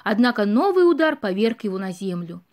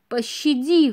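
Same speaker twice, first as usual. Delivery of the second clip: pleading; slower than usual. Acted. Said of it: "взмолился он".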